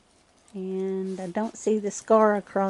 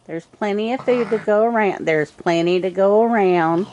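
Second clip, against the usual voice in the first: coaxing; 8 dB louder than usual. Real, not acted. Reassuring the raccoons at feeding.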